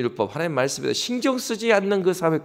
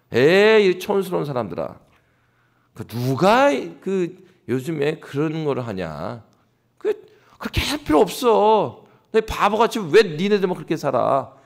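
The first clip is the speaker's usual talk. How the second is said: mildly hammed-up scoffers; scoffing townspeople. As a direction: lightly act out people sneering at country folk. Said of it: "그 시대에 어떤 사람들이 이렇게 말하겠죠".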